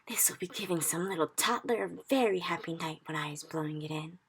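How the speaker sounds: lightly voiced friendly giant; a hint of the big gentle giant, pleased; giant's voice. BFG voice in story.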